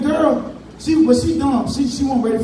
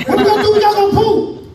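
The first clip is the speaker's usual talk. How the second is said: put-on high, louder pleading child; whiny kid, louder; 11 semitones higher, 4 dB louder, faster than usual. Child pleading to grandma about the bathroom, high and louder.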